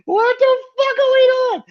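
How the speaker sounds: high, loud yell of disbelief; exasperated yell. Real, not acted. Host yelling at WWE booking, high and loud. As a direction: yell it at the bookers.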